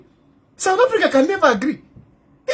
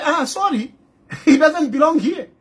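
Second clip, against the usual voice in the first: mock dismissive official; 3 semitones higher than usual. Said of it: "The government here will say".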